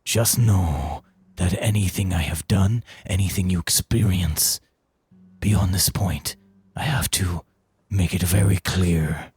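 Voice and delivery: put-on a wise old man pleading to be understood; Veldak's voice. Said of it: "the voice of Veldak".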